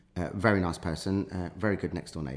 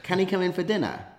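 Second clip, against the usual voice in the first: much higher, tentative mock plea; sheepish high request; 11 semitones higher than usual. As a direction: ask an awkward favour in a high voice. Retells awkward request to girlfriend.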